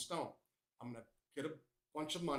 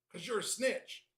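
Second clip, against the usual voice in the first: play-acted yelling, pitched up; 7 semitones higher, 3 dB louder than usual. Retelling how the attacker yelled back: retelling a yell. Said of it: "Finn yelling".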